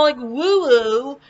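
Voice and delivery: ordinary talk, nothing marked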